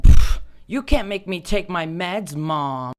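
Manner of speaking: put-on loud, slow bratty teen; bratty defiance. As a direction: sass your mom. Mock rebellion at mom.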